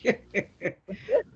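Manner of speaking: high rising burst of laughter; amused interviewer laughing; real laugh. Real, not acted. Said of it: "eu tô dando risada".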